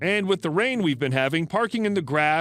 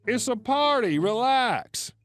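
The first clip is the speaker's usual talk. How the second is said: exclaiming; 5 semitones higher, slower than usual. Retold or imitated.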